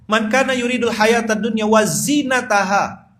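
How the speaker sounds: loud, high, slow chanted verse; Quran recitation. Acted. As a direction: intone the verse with full force.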